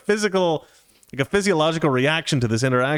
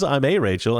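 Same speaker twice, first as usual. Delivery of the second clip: "a" said as a full AY, stressed. Retold or imitated. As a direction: lean on A to correct him. Her answer contrasting with "the Rachel.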